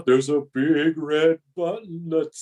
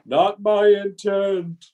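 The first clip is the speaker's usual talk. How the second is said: usual speaking voice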